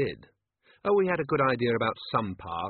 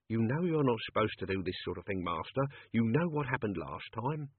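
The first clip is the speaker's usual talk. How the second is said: put-on softer, grumbling old servant; 4 dB quieter than usual. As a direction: wheedle like a nervous old manservant. Albert worried servant.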